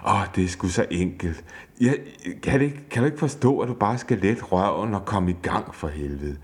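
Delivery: mock rant at the husband, rushed in places; shouting. Wife still fuming shouts at husband about chores, half-acted anger. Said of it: "råber".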